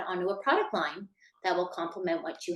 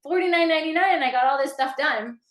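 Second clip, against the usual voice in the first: high, loud thrilled gush; imitating a customer delighted with a car wash; 8 semitones higher, 7 dB louder than usual. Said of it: "You're like".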